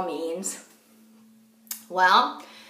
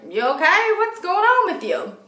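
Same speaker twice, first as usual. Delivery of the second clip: high, loud startled check-in; concerned questioning; 10 semitones higher, 4 dB louder than usual. Retold or imitated. Friend hearing something wonky on the phone, high concerned questioning. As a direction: ask it high, sensing something is off. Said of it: "Audra could hear that there was something wonky".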